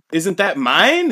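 high, slow outraged question; mock offended noble; indignant disbelief. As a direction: drag it out in disbelief. Julius indignant at losing hunt.

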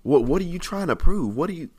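exasperated complaint to God. Acted. Preacher voices Jeremiah questioning God, exasperated and tricked. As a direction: plead with God for an explanation, voice leaping up. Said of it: "This is how Jeremiah feels".

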